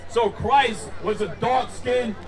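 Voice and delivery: slow, building to a shout; emphatic proclamation. Real, not acted. Preacher announcing his conclusion to the crowd, emphatic shout. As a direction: proclaim it slowly, driving the last words home.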